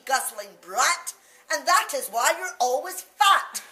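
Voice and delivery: a mum telling off a greedy brat; mother scolds her lying child; scolding mother. Acted. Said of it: "my mother cried".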